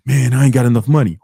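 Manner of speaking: emphatic mock grumble; mock complaining. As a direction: grumble it like someone giving up. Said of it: "Which one of those two people".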